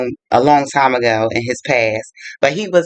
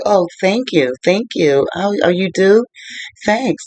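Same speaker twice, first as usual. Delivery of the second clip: mildly flattered, higher-pitched reply; lilting, higher mock gratitude; flattered surprise; 5 semitones higher than usual. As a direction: act out pleasantly taken-aback thanks. Acted flattered reply in retold chat.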